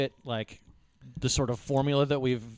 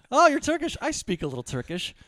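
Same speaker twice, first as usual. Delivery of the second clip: eager mock voice, higher on the first line; imitating drunk John; 8 semitones higher than usual. Drunk college friend hitting on a girl, mock eager. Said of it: "He goes".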